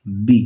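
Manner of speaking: بی said quick, short i. Shown as a demonstration. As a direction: clip the vowel of بی. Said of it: "زیر جلد پڑھیں گے". (جلد بی)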